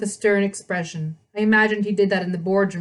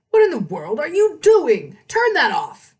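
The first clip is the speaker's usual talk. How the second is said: higher, louder angry dad; angry father; 7 semitones higher, 6 dB louder than usual. A narrator's reading. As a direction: scold her to turn it off.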